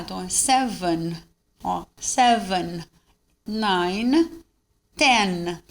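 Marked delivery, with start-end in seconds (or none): 0.3-2.8 "seven" with the final n fully sounded; clearly pronounced N. Shown as a demonstration. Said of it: "pronunciar a letra N bem pronunciada". 3.5-5.6 "nine" and "ten" with lingering final n; clearly pronounced N. Shown as a demonstration. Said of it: "pronunciar a letra N bem pronunciada".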